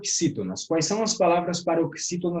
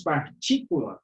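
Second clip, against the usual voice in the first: "partícula" with the middle TÍ stronger; teacher showing the stressed TÍ of "partícula". Shown as a demonstration. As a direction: lean on TÍ in "partícula", letting the last two syllables fall. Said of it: "A sílaba tônica, é o T I".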